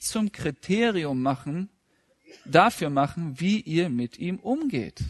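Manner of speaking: slow, weighty Bible reading; measured pulpit reading; scripture reading. Acted. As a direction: read the verse slowly and solemnly.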